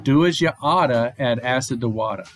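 light Boston accent, dropped r's; a playful Boston accent for the rhyme. Shown as a demonstration. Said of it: "my best Boston accent for this".

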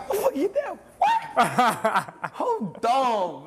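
talking through real laughter; can't get the words out for laughing. Real, not acted. Laughing at his own story.

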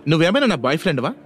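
indignant challenge, pitch climbing at the end; mildly angry, offended questioning. Acted. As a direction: snap back with an irritated question. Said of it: "కోపంగా అడిగింది".

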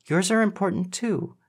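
high, earnest reassurance; reassuring. A narrator's reading. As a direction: assure a troubled friend, pitched high. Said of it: "Mindy assured him".

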